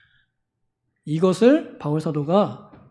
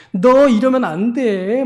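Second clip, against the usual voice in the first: slow mock reproach; 4 semitones higher, 4 dB louder, slower than usual. Zealot condemning others.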